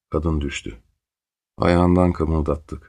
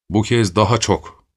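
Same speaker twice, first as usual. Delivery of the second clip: mild shout; 3 semitones higher, 3 dB louder than usual. Acted. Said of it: "diye bağırdılar ötekiler".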